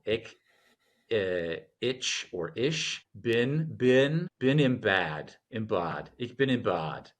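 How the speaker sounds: American-accented Ich bin im Bad. Shown as a demonstration. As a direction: say it like an American learner. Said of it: "depending on how the American".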